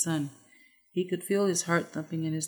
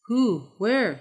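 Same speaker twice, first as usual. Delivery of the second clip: sharp high startled questions; incredulous; 5 semitones higher, 9 dB louder than usual. Acted. Friend hearing the enemy lured them, stunned disbelief. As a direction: blurt out in disbelief.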